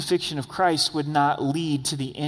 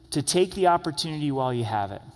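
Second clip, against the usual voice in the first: urging; faster than usual. Shown as a demonstration. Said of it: "Jesus emphasizes".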